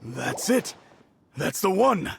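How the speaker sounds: light up at seeing it again; overjoyed to have the ring back; delighted recognition. Acted. Owner sees his lost ring.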